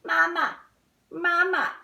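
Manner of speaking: high, loud little chick calls; baby goslings. Acted. Goslings calling Bruce their mother, high loud baby calls. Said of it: "The little goslings are saying".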